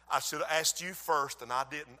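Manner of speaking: low, softened retold apology; mild, tender contrition; gentle apology. Wife's soft apology, retold.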